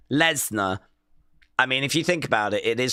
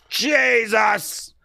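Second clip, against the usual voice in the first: surprised; 5 semitones higher than usual. Real, not acted. Reacts to the near fall.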